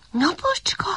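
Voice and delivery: calling. A narrator's reading. Puppy calls to the sun.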